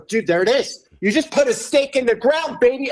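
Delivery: high, hyped-up cheering; excited cheer. Retold or imitated. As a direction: pump him up.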